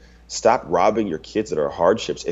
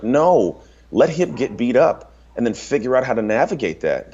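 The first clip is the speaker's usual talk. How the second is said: higher-pitched emphatic refusal; firm objection; 4 semitones higher than usual. Retold or imitated. Father overruling wife about rescuing their bullied son, firm objection. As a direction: put your foot down, pitched up.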